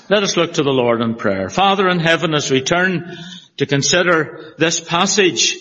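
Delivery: earnest pulpit prayer voice; steady, earnest prayer read. Acted. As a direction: pray it over the congregation, reverently. Pastor leads congregation in prayer.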